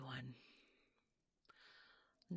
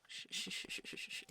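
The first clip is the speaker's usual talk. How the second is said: shushing. Acted. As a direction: hush a startled child. Hushing the woken child.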